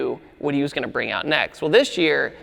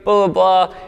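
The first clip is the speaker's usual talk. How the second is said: higher, evenly pitched yes-sir voice; stiff, mock-apologetic; 5 semitones higher than usual. Friend pulled over by police, imitated stiff apology. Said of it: "all stiff and just like".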